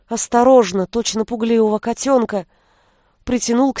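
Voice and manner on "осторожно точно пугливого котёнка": ordinary delivery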